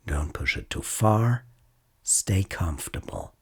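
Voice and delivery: calm, unhurried mindfulness guide with long pauses; guided meditation. Acted. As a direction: gently lead a listener through noticing body and senses.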